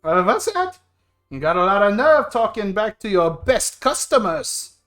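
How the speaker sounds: loud, affronted customer; indignant drinker. Acted. Drinker rebuking the bartender for talking back, loud and indignant. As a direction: challenge the bartender loudly.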